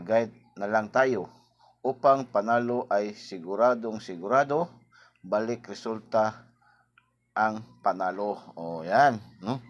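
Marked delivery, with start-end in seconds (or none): 0.0-8.4 slow, loud, emphatic quoted advice; quoting Igos slowly. Retold or imitated. Telling listeners what Igos advised, slow and loud. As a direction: lean on each word like a sure tip. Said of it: "sabi niya".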